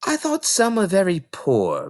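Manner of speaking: put-on little girl voice. Matilda judges books.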